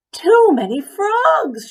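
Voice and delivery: high, loud and slow wail; slow high loud despairing cry; cried out. A narrator's reading. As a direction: draw out the cry in exasperation. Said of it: "she cried".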